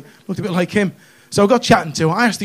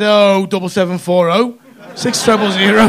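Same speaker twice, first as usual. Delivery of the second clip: eager recital; 5 dB louder, slower than usual. Retold or imitated. Reels off his number after refusing.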